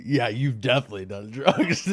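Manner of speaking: laughing mock echo of an obvious answer; teasing imitation. Echoing how a friend called out his drug use, teasing imitation. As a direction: mimic the friend while laughing. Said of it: "It's how you said it".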